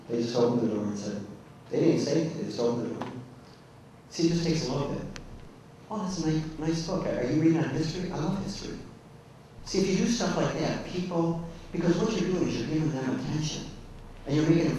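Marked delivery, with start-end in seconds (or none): 5.9-8.8 higher, softer friendly small talk; friendly interest. Shown as a demonstration. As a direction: show a customer keen, kindly interest. Demonstrates friendly attention to a customer.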